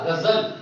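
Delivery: गजल as Urdu "ghazal", with a buzzing z; Urdu-style गजल, z ringing in the middle; nukta pronunciation. Shown as a demonstration. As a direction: say गजल with z in place of j. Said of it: "जब गजल का उच्चारण करूंगा".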